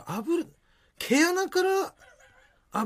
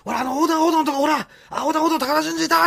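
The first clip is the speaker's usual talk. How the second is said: higher, louder pointing and shouting; excited pointing; 12 semitones higher, 6 dB louder than usual. Retold or imitated. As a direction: point it out, thrilled. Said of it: "っていう".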